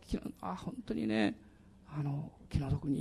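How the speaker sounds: soft, almost voiceless murmur of pity; small murmured pity. Retold or imitated. Pastor shows how he murmurs pity at sad news, softly. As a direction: let it slip out under the breath. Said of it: "ちょっと小さい声で言ってしまうんです。".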